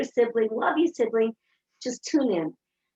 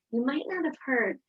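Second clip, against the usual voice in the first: softer, tender reminder; gentle; 3 semitones higher, 4 dB quieter than usual. Retold or imitated. Mother gently telling her child the sister needs her, softer. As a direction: ease the child toward her sister softly. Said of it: "I said to my kids".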